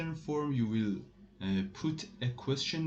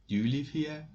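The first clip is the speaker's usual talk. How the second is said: "Do you live here?" as a clear model question; question intonation; 3 semitones higher than usual. Shown as a demonstration. French teacher pairs it with English, question intonation. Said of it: "you will make your voice up".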